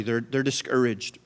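ordinary talk

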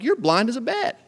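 teasing with a laugh; laughing dad. Retold or imitated. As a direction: tease him through laughter. Dad teasing at eye exam.

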